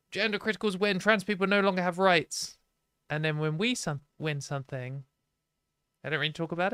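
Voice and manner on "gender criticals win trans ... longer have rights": raised pitch, imitating a triumphant headline; mock media headline. Entire media reporting gender criticals' win, mock headline voice. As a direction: mimic the press announcing a win.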